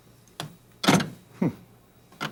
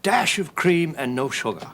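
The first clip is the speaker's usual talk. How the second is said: playful put-on British accent; lightly hammed-up British English. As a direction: do your best British accent. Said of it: "put on my best British accent".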